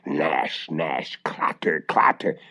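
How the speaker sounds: whispered, slow sound words; hushed whisper. A narrator's reading. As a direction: breathe it like distant danger. Marusha hears the witch coming.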